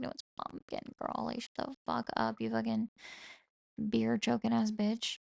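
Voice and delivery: put-on hushed, breathy whisper of the boyfriend's retort; mock ASMR whisper. Quoting boyfriend's rude comeback in a mock ASMR whisper. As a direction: whisper the insult like an ASMR clip. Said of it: "that was a little A S M R for you".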